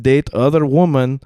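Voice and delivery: put-on Russian-accented dad, haltingly. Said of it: "in his Russian accent".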